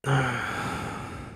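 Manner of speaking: long soft sigh. Real, not acted. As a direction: let out a long, falling sigh. Audible sigh between thoughts.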